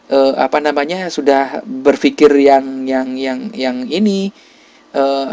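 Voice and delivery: ordinary delivery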